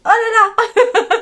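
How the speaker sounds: high, loud and drawn-out oh là là; excited exclamation. Real, not acted. A knitter getting carried away in an aside, drawn-out cry. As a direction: stretch it slowly with delight.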